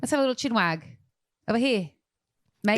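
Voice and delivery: hammed-up British "mate"; mock British accent. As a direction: play at being a Londoner inviting a chat. Mock British phrase use.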